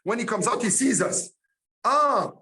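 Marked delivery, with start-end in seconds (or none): 1.8-2.3 put-on light Yiddish-tinged accent on "it's you"; a hint of an old Jewish producer accent. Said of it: "with his Jewish accent".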